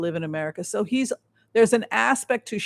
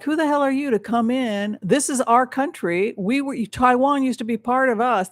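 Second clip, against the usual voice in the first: Xi fuming; 4 semitones higher than usual. Retold or imitated. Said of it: "I feel as Xi".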